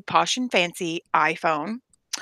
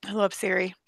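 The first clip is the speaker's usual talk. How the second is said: soft unvoiced whisper; 6 dB quieter than usual. Real, not acted. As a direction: breathe it almost silently. Whispered aside.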